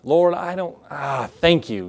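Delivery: a reluctant, dragged-out thank you; slow, grudging thanks to God through clenched reluctance. Shown as a demonstration. Pastor mocks a churchgoer's grudging, slow thank you.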